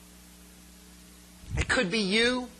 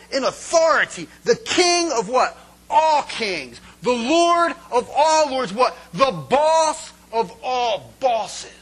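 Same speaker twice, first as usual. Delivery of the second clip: louder, higher, shouting with a laugh; preacher shouting; 5 semitones higher, 8 dB louder, slower than usual. Acted. Pastor exalting Jesus to the church, shouting and laughing. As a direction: roar out the titles of the King.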